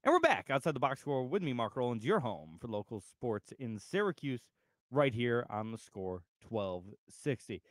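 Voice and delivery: slowing announcer read; radio host intro. Acted. Host returning from break, announcer read. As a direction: welcome listeners back like on air.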